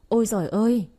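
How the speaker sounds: Ôi giời ơi wailed with a falling sob; hammed-up lament from the mother-in-law; a touch of fake crying; mock wail rising to a cry. A narrator's reading. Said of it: "la lên khóc ngất ngưởng".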